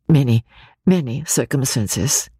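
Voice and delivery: solemn. Acted. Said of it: "said Eleanor solemnly".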